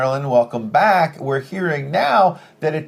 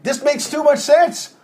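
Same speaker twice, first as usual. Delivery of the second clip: mock amazement, pitched up and drawn out; sarcastic; 7 semitones higher, 3 dB louder, slower than usual. Real, not acted. Anchor reacting to the hand-count report, sarcastic. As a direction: say it slowly and high, with pointed irony. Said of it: "I'm obviously being sarcastic".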